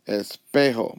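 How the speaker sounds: "espejo" stressed on the middle syllable pe. Shown as a demonstration. Teacher showing where stress falls, "espejo" accented on pe. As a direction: lift the voice on the pe of "espejo". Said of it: "My voice goes up on this E".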